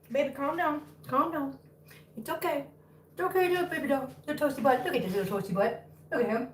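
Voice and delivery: soft cooing to a kitten. Real, not acted. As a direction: gently hush and comfort a little one. Soothing an agitated kitten.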